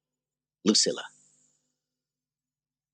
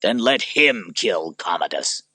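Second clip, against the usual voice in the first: in anger; 4 dB louder, slower than usual. Acted. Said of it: "Maximus said in anger".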